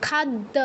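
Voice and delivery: খাদ্য as khad-da, no y; doubled consonant. Shown as a demonstration. Teacher demonstrates double letters, খাদ্য with doubled d. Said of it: "double থাকলে double উচ্চারণ করতে হবে".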